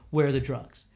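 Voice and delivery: low, stern demand without shouting; lightly voiced mad cop; retold angry demand. Cop demanding drugs from a teen driver, sternly. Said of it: "he gets, like, really mad".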